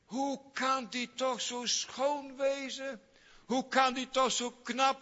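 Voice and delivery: high, marvelling voice; amazed wonder. Retold or imitated. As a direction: gasp in disbelief at her beauty. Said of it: "Dan zegt". (hoog en verwonderd, vol ongeloof)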